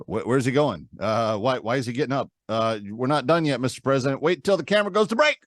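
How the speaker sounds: mock-flustered anchor, hesitant then rising; acted-out on-air confusion, pitch jumping at the end; flustered news anchor.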